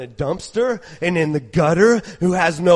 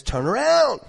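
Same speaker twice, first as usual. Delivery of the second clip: firm call to repent; stern command; 4 semitones higher than usual. Pretend. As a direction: command them to turn. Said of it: "So he just says".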